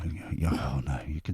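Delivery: hushed whisper. Real, not acted. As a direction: whisper it so Granny won't hear.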